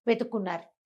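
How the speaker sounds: usual speaking voice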